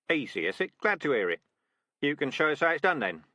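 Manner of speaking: lightly voiced tough sergeant, dry mockery; sardonic rat sergeant. Sergeant rat daring a recruit to prove it, sardonic. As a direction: tease the boastful recruit with fake politeness. Dark Tan mocking recruit.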